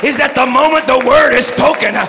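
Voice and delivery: rhythmic preaching with "uh" breaths; preaching cadence. Acted. Preacher retelling Robinette's teaching, full-force preaching. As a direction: keep the revival drive going through the quote.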